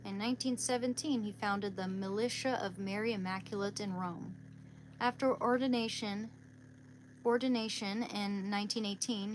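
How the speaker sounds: measured read-aloud biography. Real, not acted. Speaker reads a saint's life to viewers, reading aloud.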